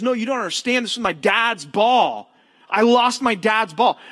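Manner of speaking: rising to a distraught shout; panicked kid. Retold or imitated. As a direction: plead that it's his dad's ball. Smalls panics over ball.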